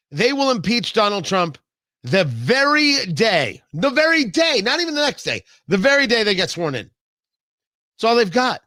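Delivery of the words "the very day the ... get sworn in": rising emphatic insistence. Real, not acted. Hammering impeachment timing point.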